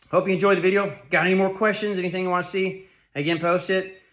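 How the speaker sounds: breathless from a workout; winded, catching breath between phrases. Real, not acted. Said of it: "I'm out of breath 'cause I'm working out".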